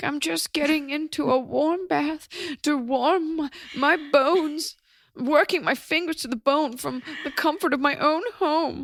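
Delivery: high, slow, trembling and quavering voice. Mocking the other speaker for working from home: imitating a shaking voice. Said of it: "you don't have to say it with your voice shaking".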